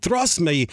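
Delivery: "Trust" said as "thrust", with a th sound and a rolled r; Giannis's trust. Retold or imitated. Analyst imitates Giannis saying "Trust me" with th-sounding trust. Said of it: "says trust when they put the R and try to roll and they said thrust".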